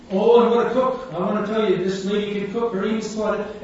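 loud, praising call to passers-by; street preaching. Retold or imitated. Preacher praising his wife to the street crowd, loud. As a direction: proclaim it to the crowd. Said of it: "and I'm going on".

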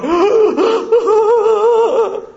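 high, loud sharp gasp of horror; shocked gasp. Retold or imitated. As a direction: suck in air in shock. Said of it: "Here were the disciples going".

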